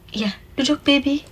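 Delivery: put-on whispered to the child; hushed. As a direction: whisper so nobody around hears. Hushing a child in public.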